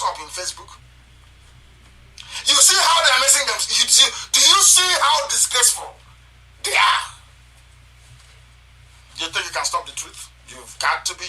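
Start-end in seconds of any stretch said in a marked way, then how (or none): 2.4-7.0 higher and louder, building to a shout; mocking jeer. Real, not acted. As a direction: jeer at them, rising. Mocking rivals, rising to shout.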